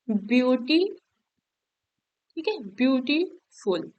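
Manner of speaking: ब्यूटीफुल broken into ब्यूटी, pause, then फुल; split in two parts. Shown as a demonstration. Teacher showing a two-syllable word to students, split in two parts. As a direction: say ब्यूटीफुल like two separate words. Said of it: "दो भाग में उसको हम तोड़ के बोलते".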